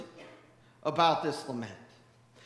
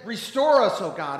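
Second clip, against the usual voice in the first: the first reading, moderately loud; 4 dB louder than usual. Retold or imitated. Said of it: "he got louder each time".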